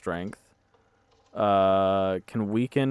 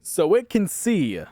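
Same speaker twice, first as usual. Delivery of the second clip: panicking gamer; 10 semitones higher, 6 dB louder than usual. Real, not acted. Realizes monster can see.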